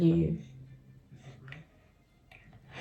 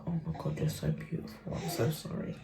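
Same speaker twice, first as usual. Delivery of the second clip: put-on hushed, tender whisper to the baby; whispered apology; 12 dB quieter than usual. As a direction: whisper sorry to soothe him.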